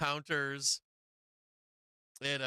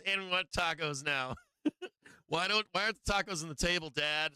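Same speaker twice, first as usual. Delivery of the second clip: mock demanding kids; 4 semitones higher than usual. Kids voiced demanding tacos from dad.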